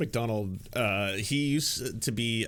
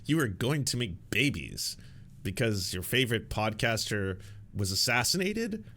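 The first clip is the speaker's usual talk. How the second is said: incredulous retort. Real, not acted. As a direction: answer him in flat disbelief. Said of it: "I was like".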